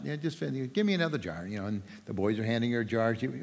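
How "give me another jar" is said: soft, hesitant "Give me another jar"; tentative request. Retold or imitated. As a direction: ask for the next jar almost under her breath. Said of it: "she goes".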